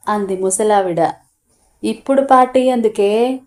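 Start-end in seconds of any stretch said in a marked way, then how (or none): 1.8-3.4 mildly annoyed, rising on party; a touch of impatience at the pointless party; irritated question. Acted. Son to his mother on the phone, mildly irritated. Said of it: "ప్రశ్నించాడు చిరాగ్గా".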